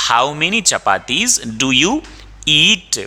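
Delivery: slow question, long ee in "eat"; pause, then stretch "eat"; long vowel in eat. Shown as a demonstration. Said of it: "अब यहाँ पे it नहीं बोलेंगे".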